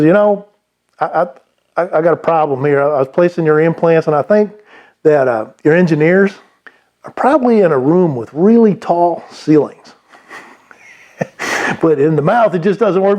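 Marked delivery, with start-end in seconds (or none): 0.0-9.9 attempted Texas accent. Classy Texan dentist complaining to his rep about implants, lightly imitated Texas accent. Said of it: "I don't know if I can do a Texas accent".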